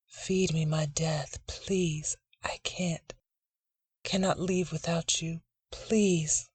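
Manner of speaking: soft, slow pleading whisper; whispering plea. Acted. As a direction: beg him in a hush. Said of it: "she whispers".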